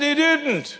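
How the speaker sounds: lightly voiced boy, pitched well up; little boy's protest. Little boy repeats himself to the preacher, insistent.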